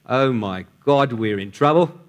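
slow Australian sailor's aside; Australian accent. Acted. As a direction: drag it out with a mild Australian accent. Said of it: "try my best Australian accent".

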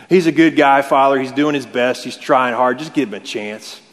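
hammed-up Southern character witness; Southern accent. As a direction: beg leniency like a Southern buddy. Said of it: "I'm talking in a Southern accent".

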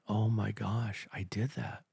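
mildly recreate the hushed shock of realizing you hurt someone; understated tearful whisper of regret; retold weeping. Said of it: "I weeping, going".

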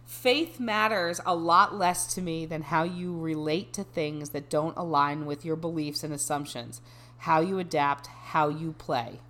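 measured, even read-aloud. Acted. Resuming a dating bio for a friend, measured reading voice. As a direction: drop back into a composed reading voice.

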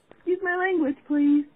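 very nicely. Retold or imitated. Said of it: "very nicely".

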